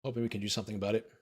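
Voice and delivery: strained, worn-out hoarse voice. Real, not acted. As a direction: voice going hoarse and tired. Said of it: "I'm losing my voice".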